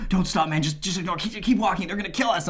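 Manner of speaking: high, urgent mock panic; scared friend. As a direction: imitate a frightened friend urging you on. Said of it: "Aaron's more scared than I am".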